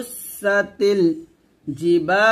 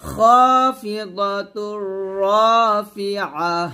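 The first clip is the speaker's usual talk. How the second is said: slow melodic খাফিদাতুর রাফিআহ; recite for repetition; 3 semitones higher, 3 dB louder, much slower than usual. Shown as a demonstration. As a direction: model it for students. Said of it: "আবার বলেন". (শিক্ষার্থীদের জন্য ধীরে)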